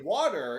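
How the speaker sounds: water as "waw-ter"; standard pronunciation. Shown as a demonstration. Co-host showing what locals don't understand, standard "waw-ter" for water. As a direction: say water with an open, non-local vowel. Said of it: "people will literally look at you".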